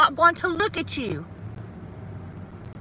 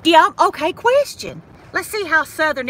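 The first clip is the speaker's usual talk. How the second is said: excited call-out; 5 semitones higher, 6 dB louder than usual. Real, not acted. Calls out to viewers excitedly.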